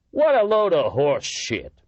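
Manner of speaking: loud, high, slow scornful outburst; loud scoff. A narrator's reading. Miller loudly scoffing at the signals. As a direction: bellow it out in disgust. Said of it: "Miller said loudly".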